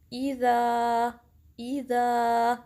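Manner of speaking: ईज़ा with a sharp hamza and a crisp ई at the start; sharp kasra. Shown as a demonstration. Teacher demonstrates ईज़ा with a sharp kasra. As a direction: hit ईज़ा's opening ई crisply from the throat. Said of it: "कसरा को sharp रखेंगे".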